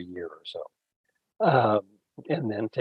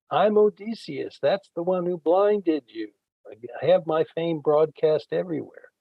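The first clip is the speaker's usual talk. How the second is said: higher, boastful call across the water; mock shout; 5 semitones higher than usual. Odysseus sailing off, boasting back at the giant, mock shout. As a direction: taunt him from the ship. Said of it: "he shouts back to the giant".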